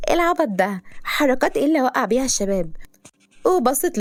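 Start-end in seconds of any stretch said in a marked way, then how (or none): 0.1-2.7 scoffing, a touch higher; mocking scorn. Girl mocking the driver's accusation, scornful. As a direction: sneer back at his accusation. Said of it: "سلمى بسخرية".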